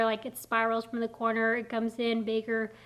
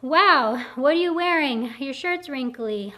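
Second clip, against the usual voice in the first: loud mock-shocked "wow", then picking at herself; mock dismay at her own video; self-critical inner voice; 5 dB louder than usual. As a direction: scold yourself in the mirror. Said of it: "me criticizing myself".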